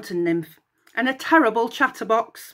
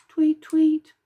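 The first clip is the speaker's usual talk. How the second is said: miserable; 8 semitones higher, 4 dB louder than usual. Acted. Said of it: "she repeated miserably".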